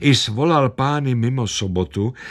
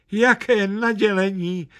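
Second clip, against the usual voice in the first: much higher, overwhelmed yelp; yelped with joy; 11 semitones higher than usual. A narrator's reading. Old lady yelps at the gift of a hamster, much higher. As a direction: cry it out high, moved to tears. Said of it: "vyjekla stará paní".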